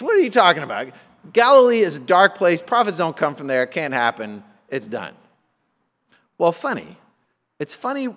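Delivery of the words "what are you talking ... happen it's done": dismissive. Acted. Pharisees blowing off Nicodemus, dismissive. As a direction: brush him off, starting firm and dropping away. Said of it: "they blow off Nicodemus".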